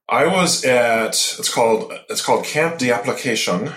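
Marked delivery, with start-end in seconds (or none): 2.4-3.7 light French accent on Camp d'Application; a mock French accent on the place name. Shown as a demonstration. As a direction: say it the French way, half-joking. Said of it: "that's my best French accent".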